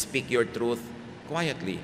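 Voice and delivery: soft, restrained plea; quietly. Shown as a demonstration. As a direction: say it gently, letting the volume drop. Urging quiet speech, voice drops.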